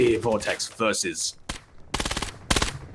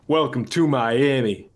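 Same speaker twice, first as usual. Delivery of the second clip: slow, drawn-out celebrity impression; Will Smith; slower than usual. Caster repeating the giveaway code, playful impression. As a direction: stretch it into a catchphrase. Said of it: "that was my Will Smith accent".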